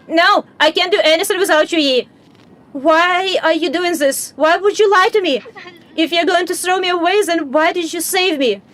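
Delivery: cling to him with every word; a hurt kid refusing to let go; pleading child. Acted. Child begging companion not to leave.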